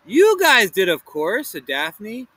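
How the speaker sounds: high loud cheerful announcement; Daphne announcing. Acted. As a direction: announce the prize brightly.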